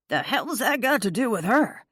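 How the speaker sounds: barked from behind her; barking. A narrator's reading. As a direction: hostile barked question. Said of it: "Camden barked".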